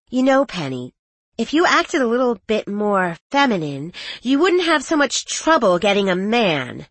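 condescending, sneering dig; catty. Acted. Trish insults Penny.

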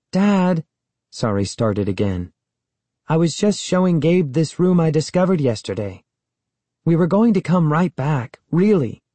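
put-on high, eager girl explaining; pleading girl. A narrator's reading. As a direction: plead your innocence to dad. Sari pleads with her dad.

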